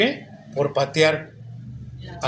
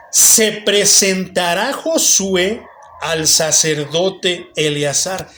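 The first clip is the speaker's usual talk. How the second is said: slow, deliberate verse reading; scripture reading; much slower than usual. Real, not acted. Preacher reading Scripture to the congregation, slow and deliberate. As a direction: read the verse out word by word.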